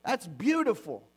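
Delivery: mock flattery laid on thick; over-the-top praise. Pastor mocks the empty gushing praise a spouse might give, hammed-up. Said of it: "go around and go".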